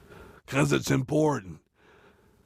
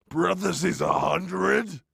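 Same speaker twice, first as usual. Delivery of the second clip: Parentheses, a hundred said higher; higher repeat; 8 semitones higher, slower than usual. Real, not acted. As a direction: raise the pitch on Parentheses, a hundred. Repeats stage note.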